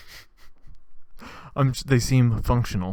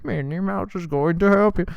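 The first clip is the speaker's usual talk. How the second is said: mock Minnie Mouse; 8 semitones higher, 5 dB louder than usual. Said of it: "so he's like".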